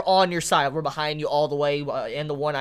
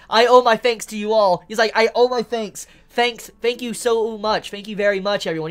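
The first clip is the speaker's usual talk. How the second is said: mock gracious thanks; 4 semitones higher, 5 dB louder than usual. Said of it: "he's just putting on a, you know, a show".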